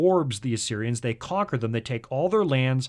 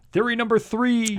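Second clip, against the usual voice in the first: grand announcer entrance; 10 semitones higher, 5 dB louder than usual. Pretend. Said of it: "I wanted reverb".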